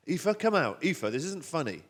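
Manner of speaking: high, loud, worried parent; sharp parental call, easing slightly. Acted. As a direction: call the child out of hiding. Father calls for hidden daughter.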